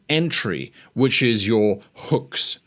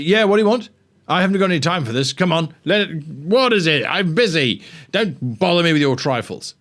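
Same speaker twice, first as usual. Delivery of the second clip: loud, higher, brusque impatient demo; aggressive NPC; 4 semitones higher, 3 dB louder than usual. Shown as a demonstration. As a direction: play a busy grump snapping at an intruder. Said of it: "That's an aggressive".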